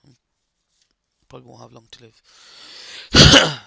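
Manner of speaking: put-on slow, loud croaky old man. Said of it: "sound like a croaky old man".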